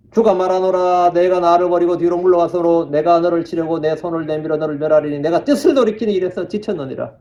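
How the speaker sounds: level, continuous Bible recitation; scripture reading. Acted. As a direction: read the verse out in an even intonation. Reads scripture aloud to congregation. (고른 성경 낭독조)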